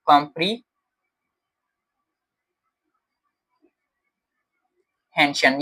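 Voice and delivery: कॉम्प्रीहेंशन drawn out very slowly, each syllable clear; a very slow, careful कॉम्प्रीहेंशन; slow model word. Shown as a demonstration. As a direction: stretch कॉम्प्रीहेंशन out syllable by syllable for a child. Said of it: "word आ जाता है text के अंदर".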